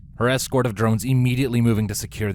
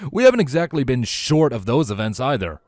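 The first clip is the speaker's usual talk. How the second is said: exasperated rant; 3 semitones higher, 4 dB louder than usual. Acted. Vladimir rants on.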